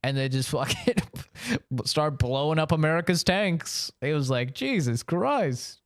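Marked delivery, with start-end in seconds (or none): 4.5-5.8 slow mock disbelief. Recalling his own shocked reaction.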